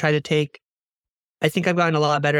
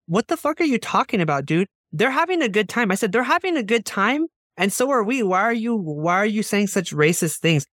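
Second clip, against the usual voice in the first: angry; 5 semitones higher than usual. Retold or imitated. Retold argument with racist friend.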